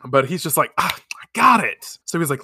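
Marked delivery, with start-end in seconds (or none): 0.8-2.0 higher-pitched mock eureka, drawn out; sudden idea. Podcaster retells his naming of the cat, mock eureka. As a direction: imitate someone suddenly hitting on an idea. Acts character having an idea.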